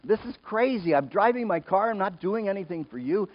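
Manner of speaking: high-pitched, indignant complaint to God; mock grumbling. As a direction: grumble upward in rising exasperation. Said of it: "I'm grumbling while I'm doing it".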